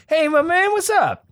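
high, slick street hustler greeting; smooth hustler. Retold or imitated. Hustler sizing up a bald guy, high smooth greeting.

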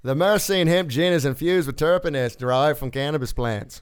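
attempted Australian news read; Australian accent. Host trying the requested read for his co-hosts in an Australian accent. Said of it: "an Australian accent".

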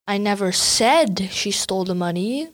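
"said" rising and pressed; "said" lifted above the rest; stress on SAID. Shown as a demonstration. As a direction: hit the word "said". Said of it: "you didn't say that she did it".

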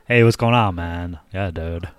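lightly voiced California dude; Paul Walker. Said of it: "It's a great impression of Paul Walker".

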